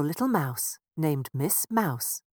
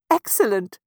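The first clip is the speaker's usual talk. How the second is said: louder, happy cry; a joyful mouse parent's exclamation; 4 semitones higher, 8 dB louder than usual. Acted. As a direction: exclaim with joy. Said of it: "exclaimed with joy".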